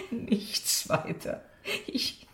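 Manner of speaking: breathless. Acted. Covering her worry after laughing.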